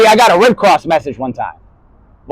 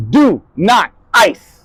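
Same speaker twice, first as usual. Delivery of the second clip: slow shout; much slower than usual. Acted. Sudden slow shouted command.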